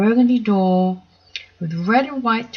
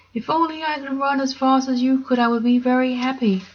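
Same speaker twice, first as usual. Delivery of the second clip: wistful lion; 6 semitones higher than usual. Acted. Lion wishing to be faster.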